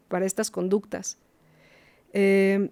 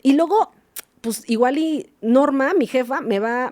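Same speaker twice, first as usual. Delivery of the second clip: higher-pitched mock grumble; mock worried psychologist; 5 semitones higher, 3 dB louder than usual. Psychologist fearing her boss's scolding, high mock complaint. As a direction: parody a worker dreading the boss, starting high and loud.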